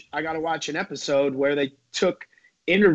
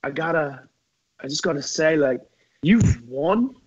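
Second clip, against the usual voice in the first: a lightly voiced British mate, pleading with his rival; half-put-on Kyle voice, a rugged competitor begging to be let off; impression of Kyle. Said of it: "I'm gonna try and do my impression of him".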